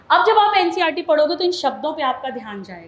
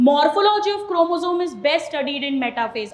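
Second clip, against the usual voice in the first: the reason read out slowly, word by word; slow dictation; much slower than usual. Shown as a demonstration. Teacher slowly reading the swapped reason to the class. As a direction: drag out each word deliberately. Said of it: "और reason बन गया".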